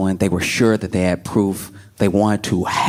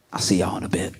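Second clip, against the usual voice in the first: softer, offhand goodbye; a soft, breezy mock farewell; casual brush-off; 2 semitones lower, 6 dB quieter, faster than usual. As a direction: toss it off quietly and carelessly. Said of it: "he was like".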